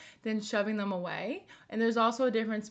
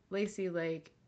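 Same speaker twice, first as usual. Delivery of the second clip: comforting herself. Shown as a demonstration. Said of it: "And then you would say to yourself".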